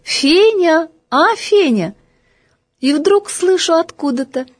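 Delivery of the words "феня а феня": higher call across the room; calling again. Acted. Зовёт снова. (громче зовёт снова)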